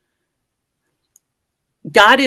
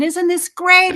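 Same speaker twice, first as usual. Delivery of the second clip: mock exhilaration; 10 semitones higher, slower than usual. Instructor cheering during the free fall.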